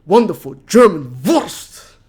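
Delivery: hammy German slogan, punched at the end; German accent catchphrase. Retold or imitated. Streamer explaining where the slogan came from, mock German accent. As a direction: imitate the show's German accent, building to a loud Wurst. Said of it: "It says that whole thing".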